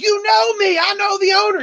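high mock indignant whine; entitled regular. DJ imitating angry regular, high indignant. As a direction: play him as an offended big spender. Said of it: "he's like".

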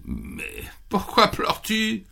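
lightly voiced rabbit. Rabbit asks fox why crying.

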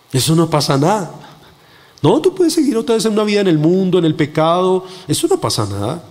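dismissive, coaxing tempter; voice of the enemy. Retold or imitated. Preacher imitates the enemy excusing sin, coaxing tempter. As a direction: make sin sound harmless, lightly acted. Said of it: "esa es la voz del enemigo".

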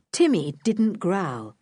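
usual speaking voice

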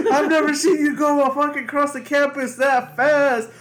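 high, loud, slow heckle; mock yell. Student teasing officer about his sprint, mock yell.

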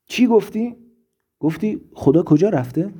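high, startled cry out of nowhere; sudden shout. A narrator's reading. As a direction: burst out shouting at the cows. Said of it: "فردریش یهو فریاد زد".

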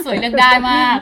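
laughing through a boast. Real, not acted. Host jokes she is pretty enough to choose, laughing. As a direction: giggle out a cheeky brag.

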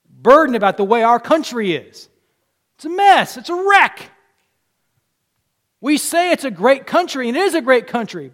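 loud, rising sermon voice; a fervent preacher lifting the congregation; full-force preaching. Acted. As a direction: preach it out to the whole room.

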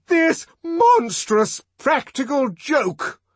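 high, loud, drawn-out shout; shouted outrage. A narrator's reading. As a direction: bellow it word by word, outraged. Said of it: "the director shouted".

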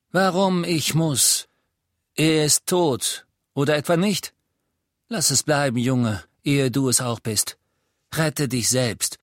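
höher, laut, langsam warnend; Aberforth, bitter. Acted. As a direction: den Jungen abschrecken. Aberforth warning Harry. (verbitterter alter Mann, warnend)

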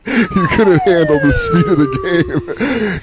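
laughing through the words, slow and high; helpless laugh drawn out over the line. Real, not acted. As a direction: crack up while teasing. Teasing the friend, cracking up.

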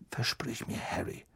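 whispered, hurried plea; father figure whispering a plea; urgent whisper. A narrator's reading. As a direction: breathe it urgently to the boy. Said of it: "sagte Mister Weasley noch hastiger".

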